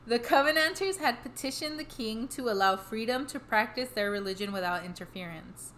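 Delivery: measured podcast read-aloud of history; scripted history narration. A narrator's reading. Telling the co-host the history behind the hauntings, measured narration. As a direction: read the history out steadily, phrase by phrase.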